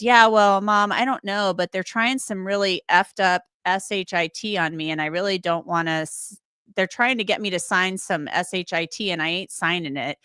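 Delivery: a hint of Billy, grumbling to his mom; Billy impersonation. Host imitating Billy on a jail call, lightly voiced. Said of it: "that's my Billy impersonation".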